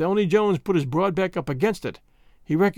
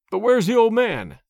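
baffled question; 5 semitones higher, 4 dB louder than usual. Acted. Jones baffled by disguise.

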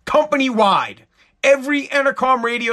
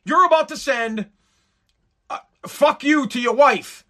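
phone pop-up warning voice; 4 semitones higher than usual. Retold or imitated. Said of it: "it goes".

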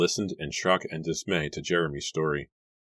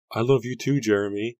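breathless; 6 semitones higher, 4 dB louder than usual. A narrator's reading. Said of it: "she replied breathlessly".

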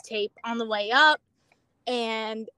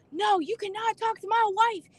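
higher, imitating a possessive man; mock jealous outburst; 9 semitones higher than usual. Arrested man telling the coworker off, higher mock jealousy. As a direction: snap it like a jealous husband, hammed up. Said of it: "He's like".

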